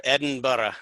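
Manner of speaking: Edinburgh said the Scottish way, as Edinbra; Edinburgh with a light Scottish accent put on. Shown as a demonstration. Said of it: "as you'll get your Scottish accent on".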